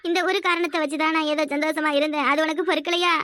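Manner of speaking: wailing complaint to God; tearful lament. Acted. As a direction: lament through tears, breaking into sobs at the end. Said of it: "ரெண்டு பேரும் மாறி மாறி அழுறீங்க". (கடவுளிடம் அழுது புலம்பல்)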